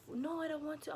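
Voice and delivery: tag. Retold or imitated. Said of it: "She's like".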